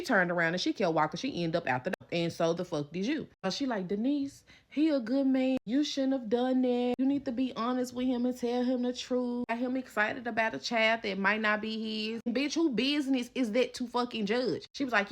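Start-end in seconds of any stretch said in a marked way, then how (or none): 3.9-14.7 higher, preachy lecture; scolding friend. Retold or imitated. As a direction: friend telling her off.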